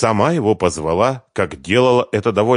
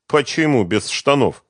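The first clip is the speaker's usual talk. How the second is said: mildly offended question; a touch hurt; 7 semitones higher than usual. Acted. The bass guitarist replies to Svetlana, a little offended. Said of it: "обиделся гитарист".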